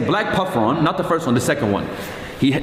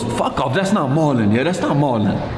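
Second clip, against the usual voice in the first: imitated London accent. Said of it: "I'm laughing at the accent".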